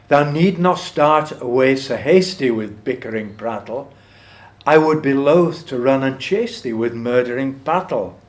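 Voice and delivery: measured, emphatic poetry reading; poem recitation. Acted. Lecturer reads Burns' To a Mouse to the class, poem recitation. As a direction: recite it with lifted, swelling stresses.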